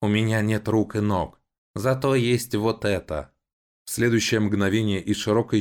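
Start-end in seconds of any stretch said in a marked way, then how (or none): 0.0-3.3 high, slow creaking machine voice; a rusty guard showing off its gun; creaky robot voice. A narrator's reading. Guard robot threatens the siblings, creaking high and slow.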